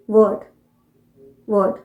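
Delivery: वर्ड kept short, the r silent; British pronunciation. Shown as a demonstration. Teacher answering her own question, British pronunciation. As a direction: say वर्ड as "wuhd", no r. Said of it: "आर नहीं pronounce किया है".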